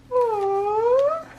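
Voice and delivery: very high, drawn-out coo; tender aww. Real, not acted. Opening the little pouch, cooing tenderly. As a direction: coo at something sweet.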